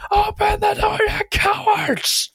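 high, drawn-out shout from outside; enraged yell. Retold or imitated. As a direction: yell it slowly through the door. Angry man heard outside again.

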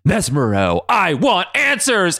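lightly hammed-up dramatic demand; Xavier. Xavier confronting Mesmero in the woods, mock-dramatic.

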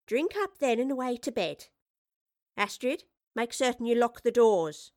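firm bedtime orders; lightly voiced stern landlady. A narrator's reading. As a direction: send them off to bed. Mistress Bradley gives orders.

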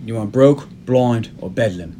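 deliberately poor Don Cheadle-style Cockney, slow finish; hammed-up fake Cockney; bad Cockney accent. Host teasing co-hosts with Basher's lines, bad Cockney accent. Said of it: "I'm doing a bad Don Cheadle".

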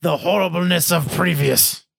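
slow, solemn recital; dramatic poem reading. Pretend. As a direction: read it like grand poetry. Reads the poem aloud.

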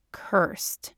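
whispered, breathy and grave; hushed confession. A narrator's reading. Man confesses his secret to his partner, hushed. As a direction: drop to a whisper on the word.

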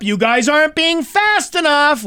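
high-pitched mock nagging; impatient hurrying. Camp guide rushing parents along, impatient. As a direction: imitate a guide chivvying stragglers in a high voice. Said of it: "she's telling us to hurry up".

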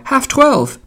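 high-pitched parting shout; calling out. A narrator's reading. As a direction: call the time out high after someone. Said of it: "Buck Mulligan cried".

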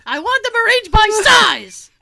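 loud, high fussy chef demand; French chef. Pretend. Continuing the chef voice.

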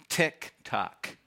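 soft, even tick tock; like a quiet clock; clock sound word. Shown as a demonstration. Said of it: "Get it?".

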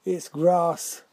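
reply with a touch of exasperation; exasperated. A narrator's reading. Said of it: "replied Maud in exasperation".

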